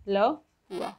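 "Le point" repeated word by word; stressed "Le", a short break, then "point"; French pronunciation demo. Shown as a demonstration. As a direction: model "Le point" as "luh pwa". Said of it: "pronounced in French language as".

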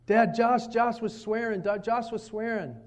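a hint of an eager child telling on a brother; mock child running to dad to tattle; tattling kid. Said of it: "some of my kids came tattling".

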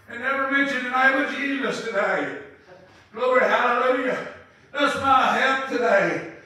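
loud, ringing preacher's call; rising into loud hallelujahs; full-force preaching. Real, not acted. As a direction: preach it out to the congregation.

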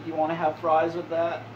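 a light mock Clinton as a drive-thru cashier; Bill Clinton voice. Gamer imagines Bill Clinton taking a McDonald's order, lightly voiced. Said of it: "put fucking a Bill Clinton voice into anything".

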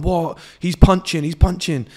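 high, loud, outraged mock whine; mocking jealous guys. Mocking the guys who never approached, high and outraged. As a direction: sneer like a jealous lad who can't believe it. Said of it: "And then guys are going".

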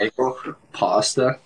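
bagel and pasta, slow, with Canadian A's; Canadian accent demo. Shown as a demonstration. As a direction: slowly show the Canadian accent in each A. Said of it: "like, in the A's".

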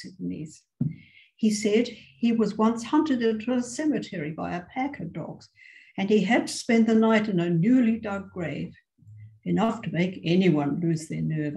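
expressive read-aloud with voiced dialogue; story reading. A narrator's reading. Teacher reading a short story to her English class, expressive narration. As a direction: tell the tale to the class, lively and clear.

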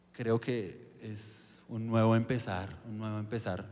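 soft, slow and hushed; quiet resolve. Retold or imitated. A new believer looking at his emptied room, soft and slow. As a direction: say it softly, like a vow. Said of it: "yo digo".

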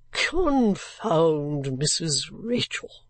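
gruff stranger cursing the cold housekeeper; gruff curse. Acted. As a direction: growl the name out slowly. Gentleman curses.

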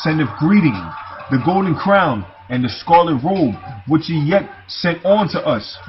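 declaimed verse, phrase by phrase; scripture reading. Acted. Preacher reading of pillars and kings to listeners, scripture reading. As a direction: read it out firmly as holy writ.

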